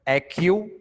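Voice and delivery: Accu- said as ek-yu with a rising end; model syllable. Shown as a demonstration. Teacher models Accu- syllable by syllable. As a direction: break Accu- off for the student. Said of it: "मैं जो पढ़ रहा हूँ वो पढ़ो".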